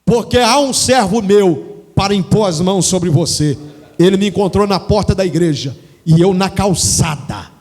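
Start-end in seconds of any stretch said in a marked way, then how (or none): 0.0-3.6 mock divine call. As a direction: proclaim it like a voice from heaven. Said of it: "a voz falava assim". (chamado em voz alta e elevada, como uma voz do céu)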